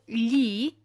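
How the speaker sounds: "li" avec un l mouillé, comme million; "li" à l'italienne, langue au palais; son gli mouillé. Shown as a demonstration. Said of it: "qui se prononce comme dans". (« li » mouillé, gli italien)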